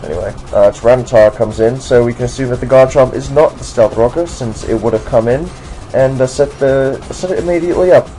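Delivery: put-on generic American doing a British accent throughout. Commentating a Pokemon battle for viewers in a put-on British accent. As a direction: keep a mock British accent the whole way through. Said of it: "I would do this video in a British accent".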